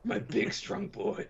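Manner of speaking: high, slow cooing flattery; cooing villain. Acted.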